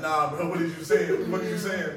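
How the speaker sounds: mock confusion. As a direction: drag out the puzzled tease. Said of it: "I'm like".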